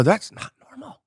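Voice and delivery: very high, squeaky protest; retold incredulous objection; acted disbelief. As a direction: push the voice way up in mock panic. Retells protesting to calm locals.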